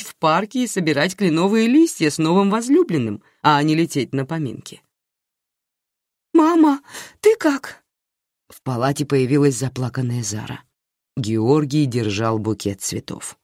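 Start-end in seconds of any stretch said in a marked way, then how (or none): 6.3-7.8 high, worried daughter's cry; anxious daughter. Acted. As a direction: rush in frightened for mum. Worried daughter bursts into hospital ward.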